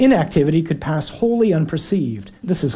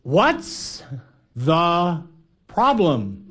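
yelling back; much slower than usual. Retold or imitated. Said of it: "yelling back".

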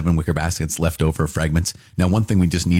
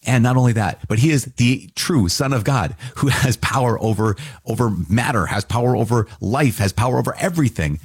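higher, insistent preaching push; soapbox rant; 3 semitones higher than usual. Real, not acted. Teacher to class about feeding miracles, on a fired-up soapbox. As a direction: climb onto the soapbox and drive it home. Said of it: "I'll get off my soapbox".

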